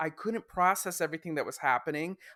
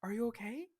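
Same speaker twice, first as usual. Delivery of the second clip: concerned women; 6 semitones higher, 8 dB quieter than usual. Retold or imitated. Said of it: "both go".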